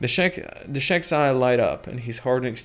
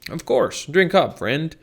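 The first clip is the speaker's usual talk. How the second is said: hearty brute; 4 semitones higher, 4 dB louder, slower than usual. Acted. Shek hosting.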